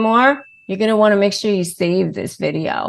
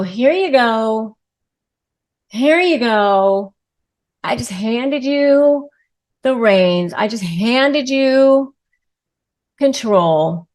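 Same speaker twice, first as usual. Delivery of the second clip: mock surrender; 2 semitones higher, slower than usual.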